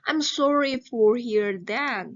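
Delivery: slow, clear reading for the class to repeat; teacher reading a phrase aloud; model reading aloud. Shown as a demonstration. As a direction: read it out as a model for students. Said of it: "Kita baca bareng-bareng dari nomor satu".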